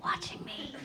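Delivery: breathy whispered aside through laughter; laughing whisper. Acted. Mom spied on at home, laughing whisper. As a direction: confide it secretly, giggling.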